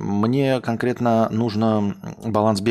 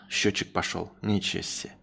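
normal talking voice

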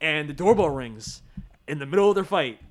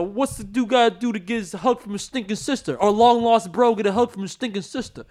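put-on New Jersey accent; 3 semitones higher than usual. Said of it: "terrible New Jersey accent".

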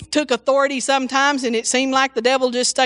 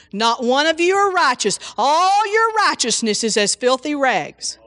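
mock condemning preacher; 3 semitones higher than usual. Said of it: "how many times ... that was preached this Sunday".

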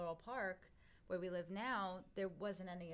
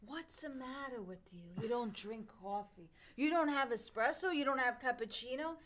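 mock outrage; 4 semitones higher, 5 dB louder than usual. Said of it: "My father almost went berserk".

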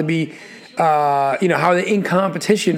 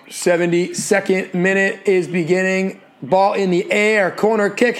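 play-by-play; slower than usual. Acted. Calls the match live.

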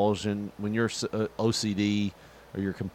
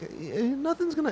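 mocking; 4 dB quieter than usual. Mock high voice.

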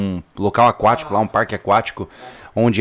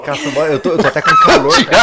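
high-pitched, breathless laughing; squeezing words out through laughter; 4 semitones higher, 4 dB louder than usual. Real, not acted. Laughing fit in studio.

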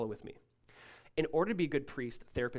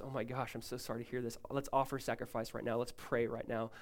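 softer, lower retold comfort; sympathetic; 6 semitones lower, 7 dB quieter than usual. Good priest comforts someone in trouble, sympathetic. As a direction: gently imitate a caring priest. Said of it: "They come at you with sympathy".

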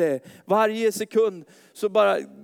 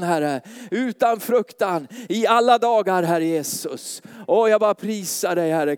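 fervent prayer; 3 semitones higher, 4 dB louder than usual. Real, not acted. Pastor praying over the congregation, building to a loud fervent cry. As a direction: pray over the church with growing fervour.

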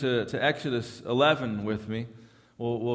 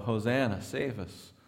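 hushed cry; 3 semitones lower, 6 dB quieter than usual. Retold or imitated. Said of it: "this yell of".

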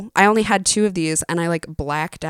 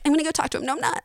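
giddy friend; 9 semitones higher, 5 dB quieter, much faster than usual. Retold or imitated. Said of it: "acting like high schoolers".

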